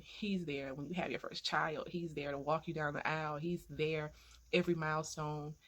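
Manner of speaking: gentle ministry address to fatherless daughters; encouraging sermon. Acted. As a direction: speak blessing over each daughter.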